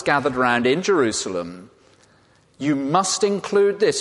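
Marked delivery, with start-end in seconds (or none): 2.6-4.0 Peter insisting. Retold or imitated. Peter urging the Gospel writers.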